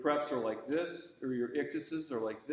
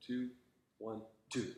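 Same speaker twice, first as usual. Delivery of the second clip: rushed, uneven count, softer; exaggerated uneven count; 3 semitones lower, 7 dB quieter than usual. Teacher mimicking a student's rushed beats, exaggerated. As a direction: mimic the student's rushing beat, overdone. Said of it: "That's a little exaggerated".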